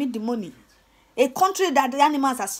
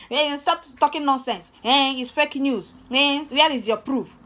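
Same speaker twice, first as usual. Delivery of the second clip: rude demand; 2 semitones higher, 4 dB louder, slower than usual. Retold or imitated. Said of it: "You'll be like".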